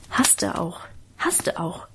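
hushed aside from the next room; whisper. A narrator's reading. Narrator whispering a mocking echo from the next room. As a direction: whisper it under your breath. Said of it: "flüsterte ich im Nebenzimmer dazu".

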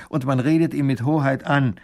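testy, pointed correction; impatient. A narrator's reading. Minister corrects the woman's form of address, impatiently. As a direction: lecture them with little patience. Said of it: "sagt der Baron ungeduldig".

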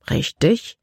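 calm. A narrator's reading. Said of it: "antwortete Caleb gelassen".

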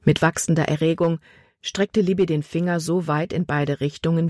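ordinary delivery

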